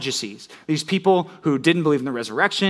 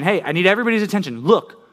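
grab the whole crowd's attention; calling for attention; 4 semitones higher than usual. Acted. John getting everybody's attention, calling out. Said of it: "he's seeing everybody's attention".

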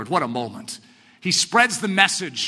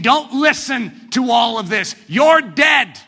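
boasting king; 3 semitones higher, 5 dB louder, slower than usual. Retold or imitated. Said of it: "He's saying".

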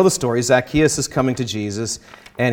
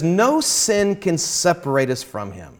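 slightly raised, emphatic reading of Luther; quoting Luther. Retold or imitated. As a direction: read the letter with mild force. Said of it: "he says".

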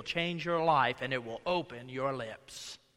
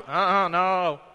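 Peter's denial; 7 dB louder, slower than usual. Retold or imitated. Peter denying Jesus.

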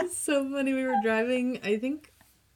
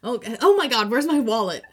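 mock panic; 3 semitones higher, 9 dB louder than usual.

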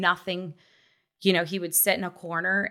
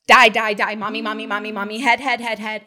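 tic outburst; 3 semitones higher, 7 dB louder than usual. Retold or imitated. Child's tics voiced in story.

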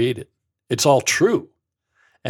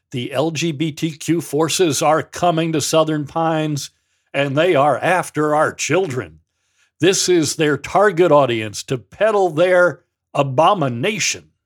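higher, louder hammed-up panic; mock alarmist; 5 semitones higher, 6 dB louder than usual. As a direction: read it like a hysterical warning to parents. Quoting alarmist church letter.

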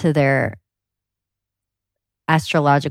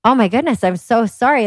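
mock tender sympathy. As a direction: play up the earnest mom soothing her child. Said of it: "And I'm like".

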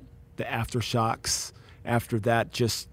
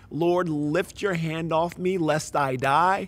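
torn, tense pleading; 3 semitones higher, 5 dB louder than usual. Retold or imitated. Intern crying out to the Lord on rooftop, torn pleading. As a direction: plead in pain, still asking for more. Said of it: "I was in that tension".

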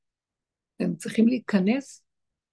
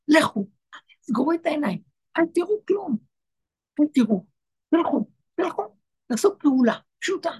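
God's urgent instruction; 3 semitones higher than usual. Retold or imitated. God telling the people to shut the mind, urgent and insistent. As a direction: urge them to shut the mind and breathe. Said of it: "הוא אומר לו".

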